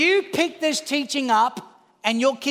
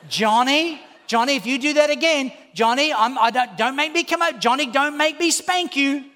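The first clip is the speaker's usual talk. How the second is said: nagging parent; 3 semitones higher than usual. Retold or imitated. Parent in a restaurant scolding the kid, exasperated. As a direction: scold the kid in public without ever acting. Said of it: "everybody in the whole restaurant knows this kid's name".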